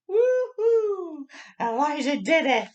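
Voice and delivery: high loud cheer; loud excited whoop. Real, not acted. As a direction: celebrate like your team just won. Cheering the success.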